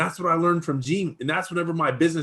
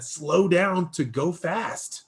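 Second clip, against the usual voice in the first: quoting the mentor; 2 semitones higher, much slower than usual. Retold or imitated. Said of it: "And so Gene said".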